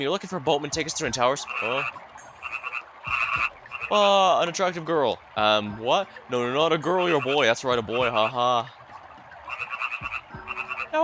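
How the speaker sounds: hammed-up flustered denial; voiced game characters. Voicing characters in dialogue.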